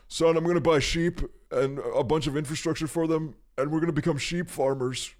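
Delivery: a hint of an eager father; imitating his dad. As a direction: son hears dad announce sheep farming, light mock dad voice. Dad announcing sheep plan.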